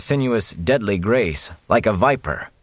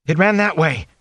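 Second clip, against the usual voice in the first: higher, shaken and urgent; frightened boy; 9 semitones higher than usual. A narrator's reading. Rand telling the warder where the Fade fled, shaken. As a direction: blurt it out still in shock. Terrified boy points out the monster.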